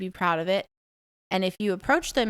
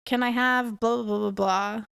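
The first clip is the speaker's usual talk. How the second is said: Bonjour sung out higher, then the request; polite shop greeting; 3 semitones higher than usual. Retold or imitated. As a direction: greet warmly before you ask. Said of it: "When you go into a restaurant".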